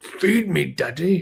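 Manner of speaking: angry, cranky, demanding cat voice. Speaking for a pet on camera, mock-angry pet voice. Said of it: "He's like so angry".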